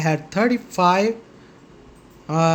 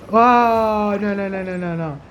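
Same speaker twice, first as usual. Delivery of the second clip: startled; 2 semitones higher than usual. Real, not acted. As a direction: blurt a long whoa, then tumble through nos. Startled reaction during game.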